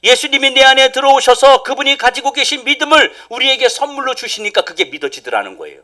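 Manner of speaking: full-voiced proclamation; loud preaching. Shown as a demonstration. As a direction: announce it boldly to the church. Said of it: "repeats the same sentence".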